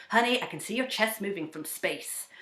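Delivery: a hint of the teasing coach voice; lightly mock the coach's exaggeration; imitating Dane. Guest imitating her coach teasing about her chest breathing. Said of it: "I was going".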